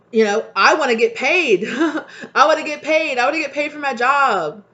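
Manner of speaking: half-laughing mock plea; giggling mock demand for pay. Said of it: "when we just say".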